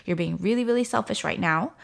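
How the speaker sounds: retold frustrated scolding. Mother to son over refusing pants, retold frustrated scolding. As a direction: retell a fed-up parent's scolding. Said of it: "I was not regulated".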